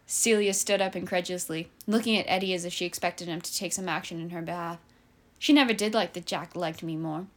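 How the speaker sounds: steady storytelling read; story narration. Acted. Author reading her own story to a friend, calm narration. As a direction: read it like a novel aloud.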